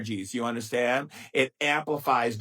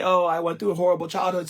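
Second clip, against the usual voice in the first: mock whiny complaint; 4 semitones higher, 4 dB louder, faster than usual. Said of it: "people say".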